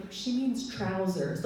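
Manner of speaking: slow, deadpan colleague clarifying; dry colleague. Retold or imitated. Colleague explaining to kids, slow deadpan correction. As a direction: calmly explain it like a British coworker. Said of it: "my colleague would be like".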